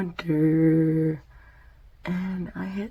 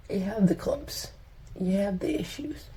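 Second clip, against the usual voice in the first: talking while applying mascara; 3 dB quieter than usual. Real, not acted. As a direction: mouth stretched for mascara. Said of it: "your ugly mascara face".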